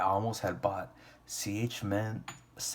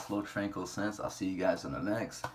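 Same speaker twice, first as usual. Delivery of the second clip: nodding off. Real, not acted. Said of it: "I'm falling asleep right now".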